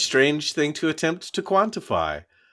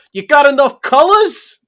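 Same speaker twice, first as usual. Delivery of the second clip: gruff Teamster; 14 semitones higher, 12 dB louder than usual. Retold or imitated. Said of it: "he goes".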